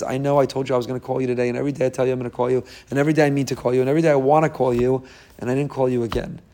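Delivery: put-on child gabbles excuses to the parent, fast; rushed excuses. Child excusing himself to parent, rushed fast voice. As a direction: rattle off the apologies quickly.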